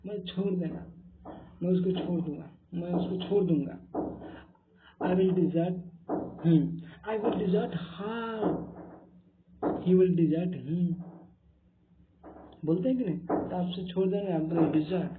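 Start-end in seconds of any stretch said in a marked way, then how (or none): 5.0-10.9 slow, deliberate I will desert her, each word apart; slow example sentences. Shown as a demonstration. Teacher modelling the verb in slow sentences for students. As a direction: spell out the sentence slowly for learners. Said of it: "इसका pronunciation में डिजर्ट".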